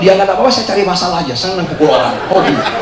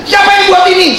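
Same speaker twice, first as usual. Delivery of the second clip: high, loud mock shout; demanding officer; 11 semitones higher, 8 dB louder than usual. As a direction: demand it like an angry chief. Officer demands who did it.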